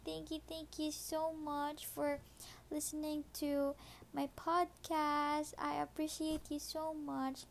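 tender goodnight to a lover; sweet nothings. Acted.

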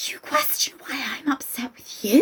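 whispered, incredulous question rising at the end; appalled whisper, ending on a rise; mock disbelief. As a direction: whisper it in acted affront. Acting incredulous Scout confronting uncle.

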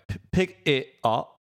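Cockney "pick it up" said slowly with a glottal stop for the T; Cockney accent. Shown as a demonstration. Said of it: "There's no T".

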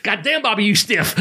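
high put-on voice of a wrestler through laughter; amused retelling of Sasuke's gripe; imitating Sasuke. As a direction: squeak it out like the Japanese wrestler. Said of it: "I can do ... this voice".

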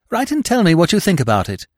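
put-on a young man rushing away, calling back breathlessly; panting. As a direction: call back while running off. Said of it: "panted Freddy".

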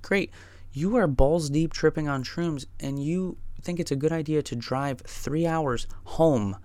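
tripping friend protesting the drive home; panicked rant. Retold or imitated. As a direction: build from exasperated to frantic. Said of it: "and I said".

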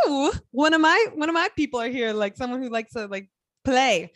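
put-on high-pitched playful English accent; amateur English accent, excitedly high. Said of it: "Australian accents and English accents".

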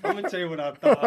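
chuckling through the words; amused, laughing retake. Real, not acted. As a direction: say it while starting to laugh. Repeated, now through laughter.

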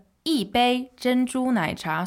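一 falling at the start of 一杯珍珠奶茶; fourth tone on 一. Shown as a demonstration. Teacher models 一杯珍珠奶茶, 一 falling. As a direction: drop 一 before level 杯. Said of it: "it becomes a fourth tone".

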